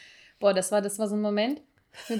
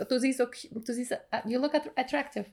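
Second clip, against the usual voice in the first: stammering; 5 dB quieter than usual. Retold or imitated. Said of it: "stotter ich".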